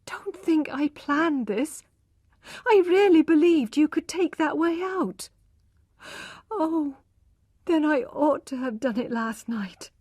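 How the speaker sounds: put-on a young wife pouring out remorse; distressed young wife. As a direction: Tess confessing to her husband in distress. Tess figure, distressed.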